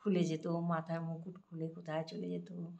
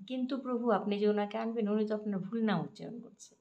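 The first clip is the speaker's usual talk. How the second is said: higher, a little louder mild protest; goddess objecting; 4 semitones higher, 4 dB louder than usual. Retold or imitated. Lakshmi pointing out the farmer's mistake, mildly higher. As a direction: gently object to the Lord.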